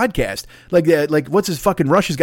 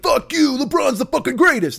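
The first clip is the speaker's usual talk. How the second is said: mock furious fan, much higher pitch; angry fan retort; 9 semitones higher than usual. Rival fan snapping back over LeBron, mock angry. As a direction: bite back like an offended fan. Hothead fan arguing the GOAT.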